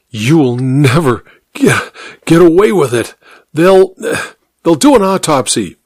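panting, struggling for words; out of breath. Acted. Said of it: "I was panting now, struggling to get the words out".

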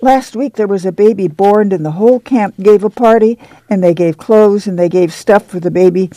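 put-on a young mother telling Ma of the camp, bubbling with excitement; excited girl. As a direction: let the words bubble out, eager and quick. Excited girl's long speech.

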